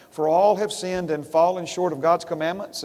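deliberately wrong version, leaning on all; misquoted verse. Shown as a demonstration. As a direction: stress on all, rising doubtful tune. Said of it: "Is that what it says?".

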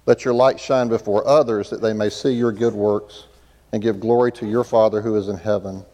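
ordinary delivery

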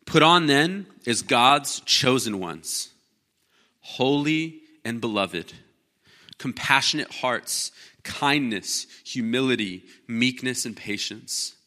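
slow, measured reading of scripture; preacher reading the verse out, slow and deliberate. Acted. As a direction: lay each word down slowly. Reads scripture slowly.

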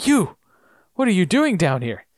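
high startled you, then settling; startled Locke. Retold or imitated. Locke finding Christian in the well, startled. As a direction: gasp at seeing him. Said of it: "And Locke says".

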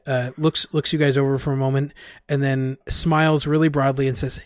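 ordinary talk

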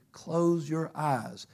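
slow, soft, calm "Close your eyes". Retold or imitated. Pastor retelling God's voice in the car, slow and calm. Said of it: "just the calmest voice".

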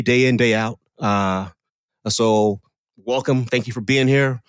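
lightly voiced movie-star thank-you speech; a hint of a humble celebrity greeting the crowd; Dwayne Johnson impression. Host as a star thanking guests, lightly voiced. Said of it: "Let me try his current voice".

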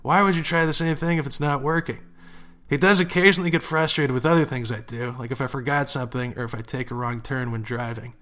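reading a listener's letter aloud, lively. Acted. Podcast host reading a listener question, lively read. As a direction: read the letter out with some color.

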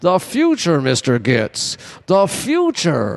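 put-on slow, drawn-out old tycoon voice; a lightly voiced old magnate, savouring the words; John Huston impression. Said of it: "I'm doing my John Housen impersonation".

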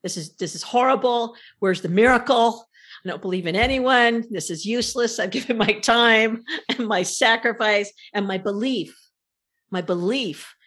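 retold frustrated rant. Retelling how she railed at her spirit guides, frustrated. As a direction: vent the betrayal as if still fed up. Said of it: "And I just kept saying".

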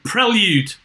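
prelude said as PREL-yood in Liverpool accent; Scouse prelude, short e, yood ending. Shown as a demonstration. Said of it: "how do you say it with your Liverpool accent".

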